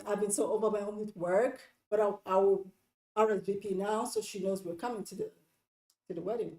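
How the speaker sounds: mild, agreeable promise; nice apology. Acted. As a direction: explain gently and offer a fix. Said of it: "by being nice and saying".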